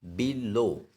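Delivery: बी लो with the stress on लो; stress on second syllable. Shown as a demonstration. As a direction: split बी लो, leaning on लो. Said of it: "यानी कि second syllable".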